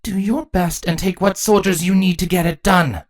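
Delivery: high, commanding queen's voice; high-pitched regal command; Chrysalis. A narrator's reading. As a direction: give the order as a queen. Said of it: "Chrysalis ordered".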